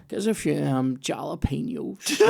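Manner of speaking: slow, spaced-out cinema-queue order, jalapenos dragged out; imitating a stoned guy. Retelling a smacked-out guy at the cinema queue, slow dazed drawl. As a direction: lightly mimic a dazed stranger's slow order. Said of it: "he said it like this".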